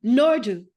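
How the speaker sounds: "Nordu" said NOR-du, stress on the first syllable; name pronunciation. Shown as a demonstration. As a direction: say "Nordu" carefully, NOR then du. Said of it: "help me pronounce her name".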